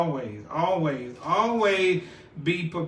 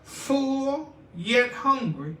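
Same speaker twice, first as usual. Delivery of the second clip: pastor preacher tone; 3 semitones higher than usual. Acted. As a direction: preach it to the congregation. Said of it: "so in my pastor preacher, uh, tone".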